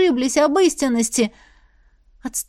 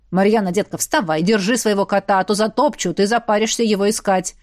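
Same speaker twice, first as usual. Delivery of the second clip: booming orc woman; 2 semitones lower than usual. Acted. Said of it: "пробасила Хараш".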